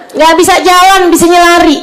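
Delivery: high-pitched mimicked parental complaint; complaining parent. Relative asks for prayers for her child, mock complaining. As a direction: imitate a parent wailing for help, voice pushed high.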